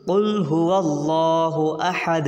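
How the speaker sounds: slow recitation with held vowels; Quran recitation. Shown as a demonstration. Teacher reading the spelled verse whole, slow recitation. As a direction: recite slowly, stopping on the final d.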